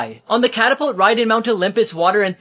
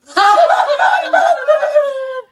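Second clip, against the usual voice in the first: very high, loud shrieking laugh; scream-laugh at the roast; hysterical laughing scream; 6 dB louder than usual. Acted. Roasted by a joke.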